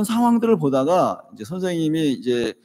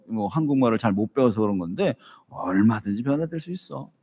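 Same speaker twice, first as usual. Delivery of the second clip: gentle consoling; 3 semitones lower than usual. Shown as a demonstration. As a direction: comfort him like a father. Father consoles son, demo.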